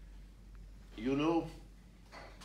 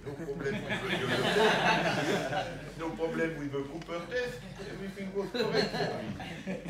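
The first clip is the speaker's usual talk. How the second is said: laughing while talking; 4 dB louder than usual. Real, not acted. Joking about referee fitness.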